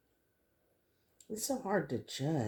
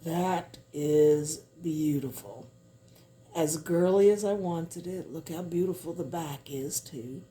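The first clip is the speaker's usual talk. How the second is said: gushing makeover reveal; 2 semitones higher than usual. Real, not acted. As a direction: gush over the finished piece. Unveiling the finished piece.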